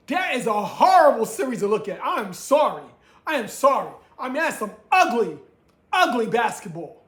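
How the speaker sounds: loud, fed-up complaining; exasperated rant. Real, not acted. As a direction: vent about ugly basketball. Ranting about bad basketball.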